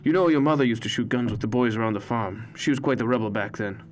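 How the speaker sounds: a chatty grandfather greeting his grandson; old grandpa. A narrator's reading. Grandpa voiced in story.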